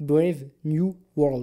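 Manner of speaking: slow, heavy, really bad French accent in English.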